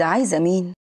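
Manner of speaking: mildly cool receptionist's question; a touch of indifference, asking who it is; cold. Acted. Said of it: "ببرود".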